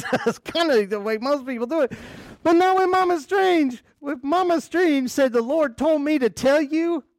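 high, loud preacher's build; excited preaching. Real, not acted. Preacher firing up the congregation, high and loud. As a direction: lift it up, almost shouting the punchline.

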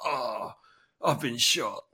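hammed-up movie death cry, drawn-out "oh"; mock dramatic. Character in an old film dramatically falling back shot, mock dramatic. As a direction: parody a stereotypical wounded film character. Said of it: "dramatic, you know, there's blood".

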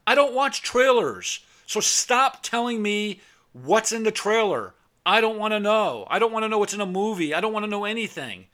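high, loud furious retort; angry retort. Retold or imitated. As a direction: tell the friend off, fed up. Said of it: "I go".

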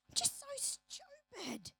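high, slow self-mocking whine; self-loathing. Someone calling herself stupid, slow high whine. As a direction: drag it out, disgusted with yourself. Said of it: "but me".

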